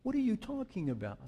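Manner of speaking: gentle, kind question, lightly voiced Jesus; Jesus gently asking the two grieving disciples, kindly. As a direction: ask softly, like a kind stranger. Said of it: "he says to them very kindly".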